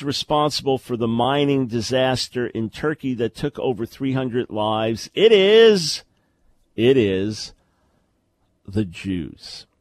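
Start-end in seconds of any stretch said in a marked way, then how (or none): 5.1-9.7 mock ominous reveal. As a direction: play the conspiracy theorist unveiling the culprit. Host parodies the scapegoating reveal.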